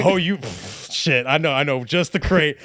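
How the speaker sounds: lightly voiced baked-out DJ, giggly and loose; a hint of a stoned DJ fumbling, then cheering. Mock stoned self at the decks, lightly voiced. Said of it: "I'm baked".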